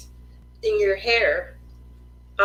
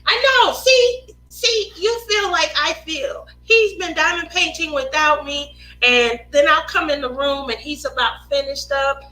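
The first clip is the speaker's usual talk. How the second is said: mock hurt; 5 semitones higher than usual. Mock hurt complaint about son.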